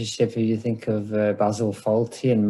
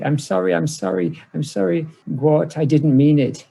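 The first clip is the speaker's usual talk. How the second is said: panicked apology; 5 semitones higher than usual. Retold or imitated. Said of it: "Richard is now panicking".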